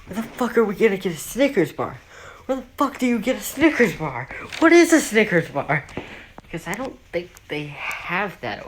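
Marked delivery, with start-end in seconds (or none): 0.0-5.8 baffled cops. Retold or imitated. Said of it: "all the cops are like".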